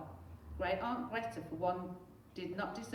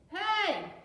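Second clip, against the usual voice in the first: high, loud protest; boy protesting his TV going off; indignant shout; 14 semitones higher, 9 dB louder than usual. Acted. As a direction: yelp in outrage. Henry's TV switched off.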